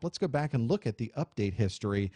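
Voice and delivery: normal talking voice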